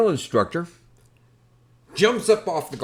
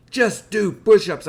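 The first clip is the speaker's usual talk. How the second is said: slow, loud, higher clipped command; stern order; 8 semitones higher, 9 dB louder than usual. Retold or imitated. Drill instructor ordering recruit, slow loud command. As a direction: spell out the punishment. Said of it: "he goes".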